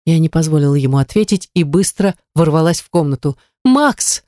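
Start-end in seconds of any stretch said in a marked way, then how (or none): 3.6-4.2 high, rushed gasp of his name; breathless cry of a wife finding her lost husband; breathed out. A narrator's reading. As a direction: let the name escape on one breath of relief. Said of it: "выдохнула я".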